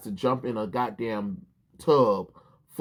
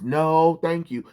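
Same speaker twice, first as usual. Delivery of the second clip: mocking catchphrase; 5 semitones higher, 4 dB louder, slower than usual. Ridiculing the writer's fake catchphrase, sarcastic. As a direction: repeat it high and sarcastic to ridicule it. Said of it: "that is not her catchphrase".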